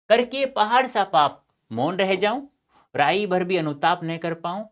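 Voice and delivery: measured, declaimed verse line; poem recitation. Acted. Teacher rereading Kaikeyi's confession for the class, poetic recitation.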